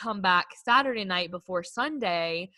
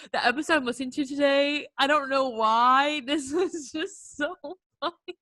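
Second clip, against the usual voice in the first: higher voice breaking into real laughter; laughing while telling; 5 semitones higher than usual. Real, not acted. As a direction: giggle through it, can't hold it in. Giggling while telling funny story.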